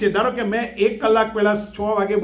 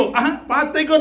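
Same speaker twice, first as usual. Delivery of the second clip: gleeful, laughing delight; laughing with joy; 6 semitones higher than usual. Retold or imitated. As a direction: laugh it out like a boy who passed. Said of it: "નાચે કૂદે છે". (હસતાં હસતાં આનંદથી)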